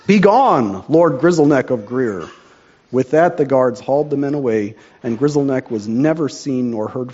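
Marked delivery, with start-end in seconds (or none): 0.1-2.2 commanding. Acted. King banishes the villain.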